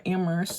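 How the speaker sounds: Amherst with the H dropped; Amherst said as AM-urst; silent H. Shown as a demonstration. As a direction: leave out the H in Amherst. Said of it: "to not pronounce the H".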